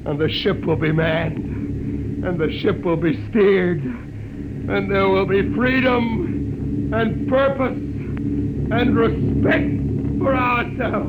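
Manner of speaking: slow, swelling proclamation; slow prophecy. Acted. Hugh proclaims the future to the crowd, slow and grand. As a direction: proclaim each phrase deliberately.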